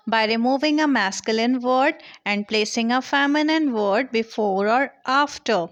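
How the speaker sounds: slow, clear teacher dictation; slow rule reading. Acted. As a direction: read the rule out slowly like dictation. Reads rule slowly. (धीमे, साफ़ लहजे में नियम पढ़ना)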